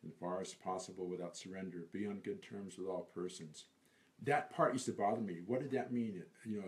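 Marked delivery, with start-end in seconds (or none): 0.0-3.6 poem recitation. Acted. Reciting a favorite poem for an interviewer, measured recitation. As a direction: recite it with care, easing down at the end.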